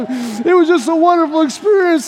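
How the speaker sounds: high, overjoyed raving; mock emotional gushing; gushing testimony. Happy visitor describing worship, high and gushing. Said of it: "He asks another person".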